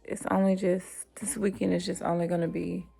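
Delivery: soft unvoiced whisper. Real, not acted. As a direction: drop to a whisper. Hushed aside mid-vlog.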